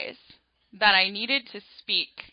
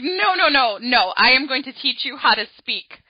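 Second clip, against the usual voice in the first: firm teacher; 3 semitones higher, 6 dB louder than usual. Retold or imitated. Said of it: "she was just like".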